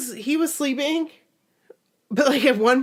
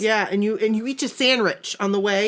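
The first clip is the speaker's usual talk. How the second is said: put-on very old faint voice. Old person voice continued.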